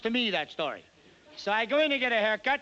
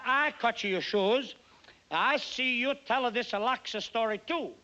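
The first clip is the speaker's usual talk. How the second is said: slower Italian accent; 3 semitones higher than usual. Shown as a demonstration. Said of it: "I'll do it slower".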